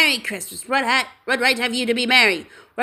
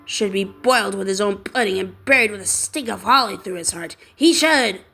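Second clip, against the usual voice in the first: indignant. Acted. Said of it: "said Scrooge indignantly".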